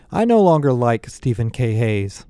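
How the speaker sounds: mildly declarative announcement; announcing. A narrator's reading. Connor to the group about Hayes, announcing. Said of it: "Connor announced".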